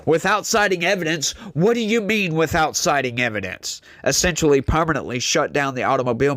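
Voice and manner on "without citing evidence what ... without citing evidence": citing pitched up high in disbelief, Without citing evidence?; incredulous echo. Real, not acted. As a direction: repeat it back as if you can't believe it. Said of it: "What? Oh my God".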